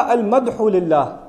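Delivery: drawn-out, deliberate "المدح للہ" with each syllable spelled out slowly; slowly stressed "المدح للہ"; slow teaching emphasis. Shown as a demonstration. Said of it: "اگر قرآن کہتا".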